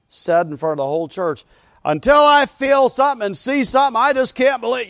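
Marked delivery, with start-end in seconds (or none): 1.9-4.9 loud, high pretend outburst; mock defiant declaration. Church brother declaring doubt before everyone, loudly defiant. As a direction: proclaim it high and loud, play-acting.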